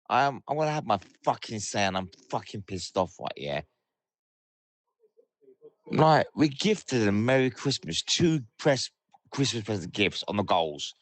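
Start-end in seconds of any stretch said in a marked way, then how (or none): none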